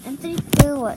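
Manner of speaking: loud call across the room. Real, not acted. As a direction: shout his name to get attention. Calling out to Anthony.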